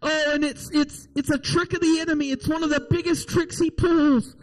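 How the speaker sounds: insistent sermon delivery with weighted key words; earnest preaching. Real, not acted. Preacher exhorts the congregation.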